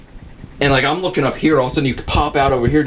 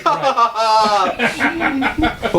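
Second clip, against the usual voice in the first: slow, drawn-out mock laugh; imitated laughing; 8 semitones higher, slower than usual. Friend up top laughing at the hunter, mock laugh. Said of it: "you're up top, like, laughing".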